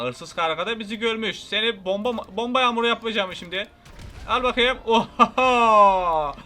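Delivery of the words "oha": loud surprised shout. Real, not acted. Surprise explosion.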